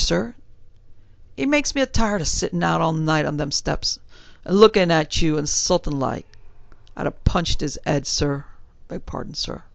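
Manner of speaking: a hint of a respectful London bellboy; young servant answering his gentleman in a light Cockney. Thomas talks about the watchman.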